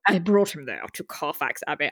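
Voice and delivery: a lightly done imitation of a bad English accent; Keanu's bad British accent. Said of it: "I can't even do it".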